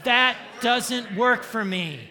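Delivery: loud slow shout, standing your ground; mean and firm. Shown as a demonstration. Preacher demands meanness from the congregation, loud firm shout. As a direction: bark it with ferocity.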